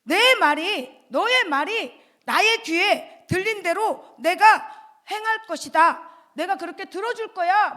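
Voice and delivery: loud, slow solemn proclamation; God's promise read out slowly and loudly; God speaking. Acted. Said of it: "하나님께서 말씀하셨어요".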